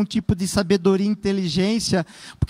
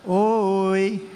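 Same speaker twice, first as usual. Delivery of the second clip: casual greeting; 3 semitones lower, much slower than usual. Shown as a demonstration. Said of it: "invocar ao Senhor é assim".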